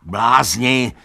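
loud high furious shout; angry desperate yell. A narrator's reading. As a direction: yell it at them in despair. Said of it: "křičel Benjamin".

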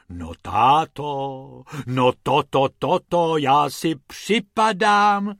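slow, drawn-out amazed sighs; astonished wife sighing at husband. Acted. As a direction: sigh it out slowly in wonder. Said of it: "zvolala paní Pumpernaglová".

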